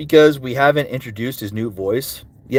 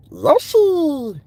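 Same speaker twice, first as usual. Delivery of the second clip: much higher squeaky call; Donald Glover's Yoshi. Acted. Answering chat's request, squeaky Yoshi cry. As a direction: chirp the name up high. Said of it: "Donald Glover's Yoshi".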